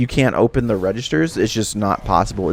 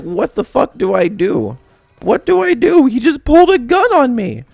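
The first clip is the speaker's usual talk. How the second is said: high-pitched alarmed disbelief, building louder; retold panic; 12 semitones higher, 5 dB louder than usual. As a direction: wail it out, hammed-up panic. Retold panic at a pulled gun.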